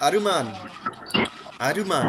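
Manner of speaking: আরুমান with a light u between r and m; Korean pronunciation. Shown as a demonstration. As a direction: say আরুমান the Korean way, u barely there. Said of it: "ওরা বলবে কি?". (Korean উচ্চারণে আরুমান)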